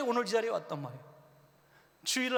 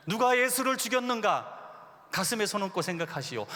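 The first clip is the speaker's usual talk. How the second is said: accusing sermon title; 3 dB louder than usual. Retold or imitated. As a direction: hammer it at the congregation like a young preacher. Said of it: "뭐 이런 설교 제목들".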